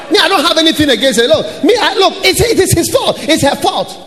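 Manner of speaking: high, fast, laughing mock protest; hammed-up self-justifying; mocking excuse. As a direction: parody a believer passing the blame. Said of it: "that kind of, uh, poetry".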